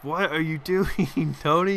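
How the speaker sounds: exasperated with his own play, half laughing; drawn-out mock scold at himself; yelling at himself. Real, not acted. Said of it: "you're just yelling at yourself here".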